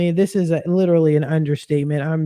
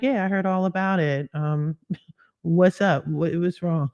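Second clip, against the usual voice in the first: calm and ladylike. Retold or imitated. Mom hearing her upset daughter's news, calm. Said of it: "she was very calm, very ladylike".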